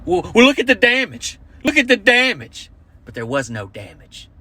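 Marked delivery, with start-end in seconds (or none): 0.1-2.7 high, whiny mock woman; insistent lady. Lady pleading with the cops, high whiny mock voice. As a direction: whine it up high, pointing at the damage. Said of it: "she's like".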